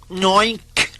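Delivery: a sad pig crying out; mournful oink wail. Acted. Enormous pig Mister Grumble wails in shame, high mournful oink. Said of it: "wailed Mister Grumble mournfully".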